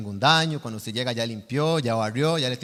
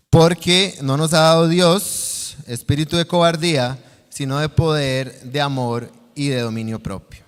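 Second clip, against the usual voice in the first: loud, emphatic opening easing to usual level; reading aloud together; 5 dB louder than usual. Acted. Preacher leading the congregation in a verse on a count, emphatic group reading. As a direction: lead a group recitation of scripture firmly. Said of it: "A la cuenta de tres lo leemos".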